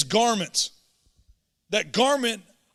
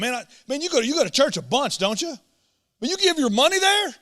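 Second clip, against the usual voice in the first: mocking critic; 6 semitones higher than usual. Critics questioning churchgoer, mock voice.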